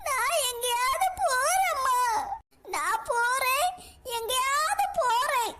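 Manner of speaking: slow, drawn-out sulking threat; sulky wail. Acted. Daughter whines to her mother that she will leave, slow and sulky. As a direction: drag out the words like a hurt child.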